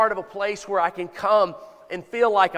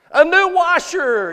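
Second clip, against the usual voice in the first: loud; 10 semitones higher, 9 dB louder than usual. Real, not acted. Repeating a congregant's shout.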